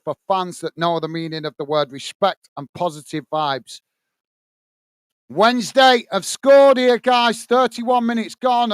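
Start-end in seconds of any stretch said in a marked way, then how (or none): 5.3-8.7 louder, slow goal announcement; goal excitement. Real, not acted. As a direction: break the news of the goal to viewers. Goal scored during live watchalong.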